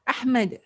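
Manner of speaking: "Ahmad" with a bouncing, released final d; qalqalah on d. Shown as a demonstration. Teacher saying a student's name, bounced final d. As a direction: punch "Ahmad" and let the d echo. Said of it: "There is a qalqalah of it".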